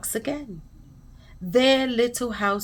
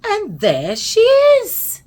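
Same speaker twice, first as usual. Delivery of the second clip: very high, loud, drawn-out squeal; squeaky little bear; 11 semitones higher, 7 dB louder, slower than usual. A narrator's reading. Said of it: "Baby Bear's high, squeaky voice".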